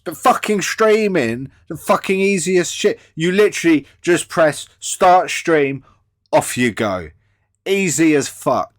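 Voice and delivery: loud, high, scornful; exasperated rant. Real, not acted. Scolding the guest over streaming, loud scornful rant. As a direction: hammer home how easy it is.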